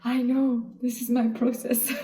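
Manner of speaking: laughing as she tells people who try to fix her grief; laughing reply. Retold or imitated. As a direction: brush off the comfort with a laugh. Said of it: "And I'm like".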